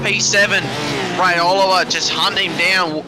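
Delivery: breathless commentary; winded, catching breath between words. Real, not acted. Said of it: "Oh, I'm out of breath".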